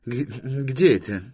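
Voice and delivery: high, stammered official's query; puzzled inspector. Acted. Inspector asks where that planet is, puzzled. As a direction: stumble into a high question.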